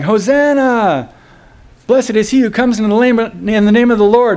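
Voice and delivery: high, sustained acclaim without real volume; imitated crowd shouting. Crowd hailing Jesus, imitated high-pitched shouting. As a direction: call it out like a praising crowd. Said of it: "when they were shouting".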